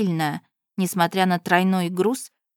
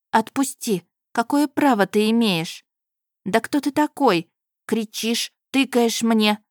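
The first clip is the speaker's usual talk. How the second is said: higher, raised indignant voice; indignant protest; 4 semitones higher than usual. Acted. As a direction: push him off, outraged. Heroine argues with the groom.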